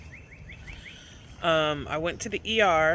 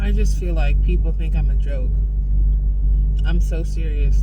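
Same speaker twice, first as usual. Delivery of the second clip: loud, fed-up rant, barely holding it together; real anger; 3 semitones lower, 6 dB louder than usual. Real, not acted. Vlogger venting to camera, loud and furious. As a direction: let the fury spill out at people who won't listen. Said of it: "Anger is better than mania".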